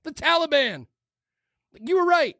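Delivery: high, exasperated tirade; worked-up rant. Real, not acted. Host railing about twenty years of wars, exasperated rant. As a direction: rant heatedly at the camera. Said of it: "not screaming at the camera".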